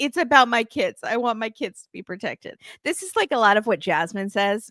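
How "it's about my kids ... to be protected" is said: put-on tearful, crying woman's voice. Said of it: "Mina starts crying".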